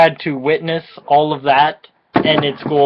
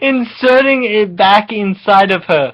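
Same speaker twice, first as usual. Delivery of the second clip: laughing through it; 3 semitones higher than usual. Real, not acted. Laughing while reading grim line.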